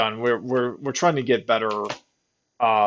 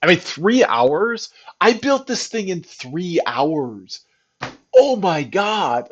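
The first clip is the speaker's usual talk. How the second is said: amazed; 4 semitones higher, 3 dB louder, slower than usual. Real, not acted. Amazed at build time.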